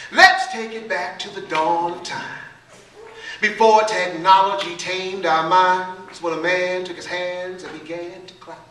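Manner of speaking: rhythmic verse with held, punched openings; spoken-word poetry. Acted. Poet taking the audience back to the dawn of time, rhythmic spoken word. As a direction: perform it in measured beats, easing at line ends.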